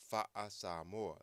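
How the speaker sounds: Fa'a Samoa said slowly with a long stretched Fa'a; slow Samoan demo. Shown as a demonstration. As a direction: draw out Fa'a Samoa carefully. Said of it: "practice pronouncing words".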